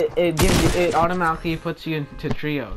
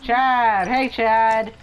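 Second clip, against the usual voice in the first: pet talk voice; 7 semitones higher than usual. Acted. Coaxing in-game animal Chad.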